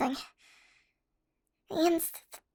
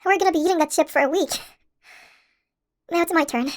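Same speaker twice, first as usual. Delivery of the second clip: louder, fast and thrilled; excited amazement; 5 dB louder than usual. Acted. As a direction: marvel at the giant chip. Chip grows huge.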